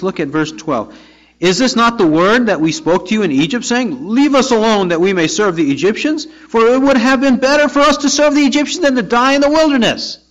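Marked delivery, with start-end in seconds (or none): 1.4-10.2 mildly scornful, climbing higher and faster; scoffing taunt. Acted. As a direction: taunt the leader, rising into a quicker complaint. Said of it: "They continued to scoff and taunt Moses".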